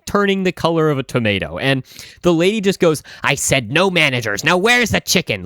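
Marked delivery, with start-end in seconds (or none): 3.2-4.4 imitating an angry customer's refusal; understated angry insistence; retold anger. Red-faced customer forbidding managers, mildly angry. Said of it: "the most angry that he has ever seen". 4.4-5.4 imitating an irate customer, pitched higher; mildly acted angry insistence; angry demand. Irate lady demanding chicken from the clerk, angry. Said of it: "the most angry that he has ever seen".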